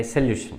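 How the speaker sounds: સોલ્યુશન as "suh-lyu-shun", reduced first vowel; correct pronunciation. Shown as a demonstration. Teacher repeating the proper form for students, સોલ્યુશન as "suh-lyu-shun". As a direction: give સોલ્યુશન a short "se" start, not "sol". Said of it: "એનો ઉચ્ચાર થાય".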